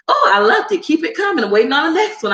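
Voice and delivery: high, giddy fan voice with a laugh; mock gushing fan. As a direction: gush like a thrilled viewer. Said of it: "you be like".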